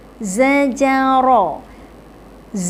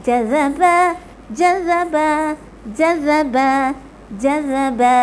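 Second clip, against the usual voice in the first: quick. Shown as a demonstration. Teacher drilling the word at quick pace. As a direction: rattle it off at speed.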